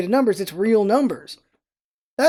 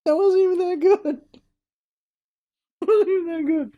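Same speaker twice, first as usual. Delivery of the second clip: laughing; 6 semitones higher than usual. Real, not acted. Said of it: "I'm crying".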